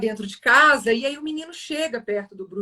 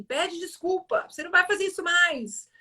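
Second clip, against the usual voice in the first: demanding apology; 8 semitones higher, 3 dB quieter than usual. Acted. Boy sitting on his rival, demanding an apology. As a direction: demand it in a raised pitch.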